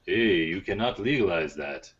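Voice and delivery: slow, lightly put-on Native American accent; a hint of a bad Native American accent. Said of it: "That was a terrible Native American accent".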